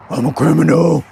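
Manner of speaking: put-on caricature voice; mock impression of a self-declared criminal; Unlimited. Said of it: "Unlimited sounds like this".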